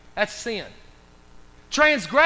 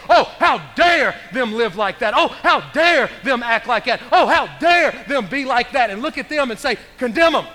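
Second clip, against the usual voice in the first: mock self-righteous; 4 dB louder than usual. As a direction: play the judgmental churchgoer. Mocking judgmental people.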